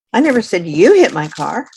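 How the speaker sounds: the stress falls on hit. Shown as a demonstration. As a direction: hit rises and comes out loud. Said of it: "For example".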